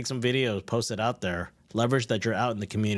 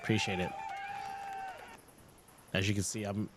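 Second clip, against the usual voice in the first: barely audible; 10 dB quieter than usual. Real, not acted. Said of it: "I can barely hear you".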